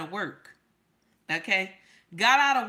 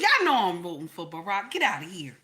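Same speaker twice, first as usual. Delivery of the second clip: playful reassurance; 4 semitones lower, faster than usual. Retold or imitated. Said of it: "I said".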